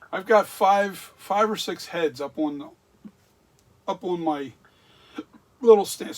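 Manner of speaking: talking through hiccups; words jolted by hiccups. Real, not acted. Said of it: "Sorry, I have hiccups".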